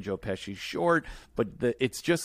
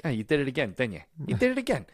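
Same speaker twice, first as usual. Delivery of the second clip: scolding Marv; much faster than usual. Retold or imitated. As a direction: lightly play Marv nagging his partner. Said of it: "He's like".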